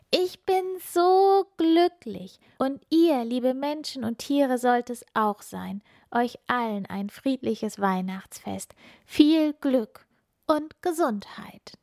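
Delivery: high, loud, joyful call. Acted. Funkila calling to the night sky, high and joyful. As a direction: shout your happiness into the night sky. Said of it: "rief laut in den Nachthimmel".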